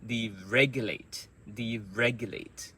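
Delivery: Deregulate repeated with REG punched; strong second syllable in Deregulate, falling end; word stress demo. Shown as a demonstration. Teacher drills Deregulate for learners, stressed on REG. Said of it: "those sounds are the strong sounds".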